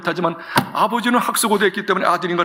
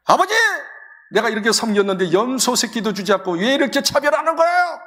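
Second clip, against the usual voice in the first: mock angry son; 4 semitones higher than usual. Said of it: "아버지한테 화를 내요".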